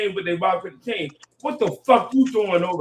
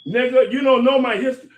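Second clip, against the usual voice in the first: heated; 2 semitones higher, 5 dB louder than usual. Real, not acted. Fired-up rebuttal.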